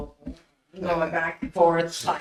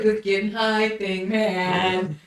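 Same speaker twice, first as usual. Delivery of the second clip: mock bowing out; 4 semitones higher, 4 dB louder, slower than usual. Imitates friend bowing out.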